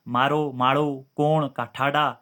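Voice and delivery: "मारो, माड़ो, कोण, काठाड़ा" said slowly, Rajasthani-style; Rajasthani pronunciation. Shown as a demonstration. Teacher showing students how Rajasthani sounds, slow example words "मारो, माड़ो, कोण, काठाड़ा". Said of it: "इस टाइप से राणा, राजस्थानी बोला जाता है".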